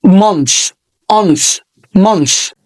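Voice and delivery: "month" repeated with a short uh; model pronunciation. Shown as a demonstration. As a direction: say "month" over and over clearly. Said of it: "أو كلمة". (نطق month بتكرار)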